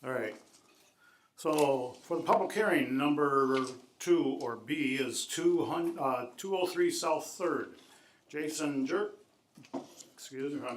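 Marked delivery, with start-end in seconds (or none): 1.4-9.2 raised voice for the back of the room; speaking louder. Real, not acted. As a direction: project so everyone can hear. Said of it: "I'm gonna speak louder more".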